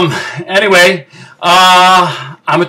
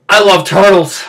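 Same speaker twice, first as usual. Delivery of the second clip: heartfelt, emotional declaration; faster than usual. Acted. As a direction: declare it in full voice, feeling welling up. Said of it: "I'm getting a little emotional".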